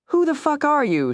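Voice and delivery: sharp, high-pitched challenge; angry demand. A narrator's reading. Woman pinning her pursuer at knifepoint, angry demand. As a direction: demand it angrily, voice jumping up. She holds knife to his throat.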